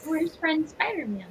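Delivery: high-pitched, playful searching question; searching companion. Acted. Player looks around for a missing companion, high searching voice. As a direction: ask it high, as if looking around. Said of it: "taking a look around and going".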